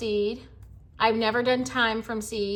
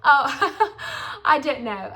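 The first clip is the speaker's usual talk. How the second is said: laughing at her own accent attempt; 4 semitones higher, 4 dB louder, slower than usual. Real, not acted. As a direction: break into a laugh mid-impression.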